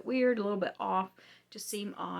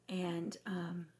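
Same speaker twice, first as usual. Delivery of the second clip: losing voice; 3 dB quieter than usual. Real, not acted. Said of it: "Sorry, I'm losing my voice".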